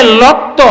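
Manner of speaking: "লক্ত" slow, l for r; রায়পুরার টানে ধীরে "লক্ত"; Raipura dialect r as l. Shown as a demonstration. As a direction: say "লক্ত" slowly with l. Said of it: "রক্তকে বলে লক্ত".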